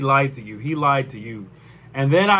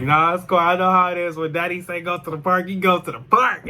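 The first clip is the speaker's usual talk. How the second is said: mocking friend; 4 semitones higher than usual. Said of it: "she was making fun of me".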